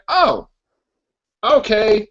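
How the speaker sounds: comic high-pitched villain having a sudden idea; mock-delighted schemer, rising to a squeak; acted-out Kingpin. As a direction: play a villain looking someone up, voice climbing high. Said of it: "And then the Kingpin's like".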